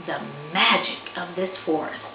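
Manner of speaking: gentle storybook reading voice; story narration. A narrator's reading. Author reading her picture book to listeners, storybook narration. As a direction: read it like bedtime to kids.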